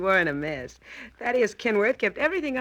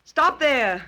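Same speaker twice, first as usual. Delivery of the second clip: sharp warning; 7 semitones higher, 5 dB louder than usual. Acted. Helen at gunpoint warns Dan.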